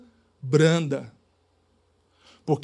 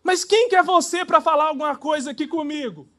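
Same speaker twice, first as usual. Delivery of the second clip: higher, an indignant comeback; wife snapping back; 8 semitones higher, 3 dB louder than usual. Retold or imitated. Wife hits back at her complaining husband, indignant. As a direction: fire the question right back at him.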